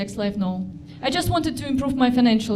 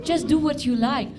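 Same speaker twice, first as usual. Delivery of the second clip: soothing psychologist; 3 semitones higher than usual. Retold or imitated. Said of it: "psychologist is like".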